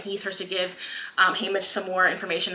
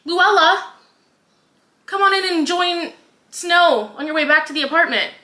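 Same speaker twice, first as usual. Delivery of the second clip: higher, louder, falsely sweet sneer; a hammed-up villain voice, higher and sugary; mock sweet villain; 7 semitones higher, 4 dB louder than usual. President Snow sweetly taunting Haymitch before he leaves, higher mock villain voice. Snow presenting the fake Luella.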